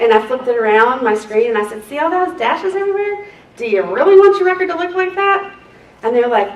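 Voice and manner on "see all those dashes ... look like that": sarcastic teacher. Retold or imitated. Showing the screen to attorneys.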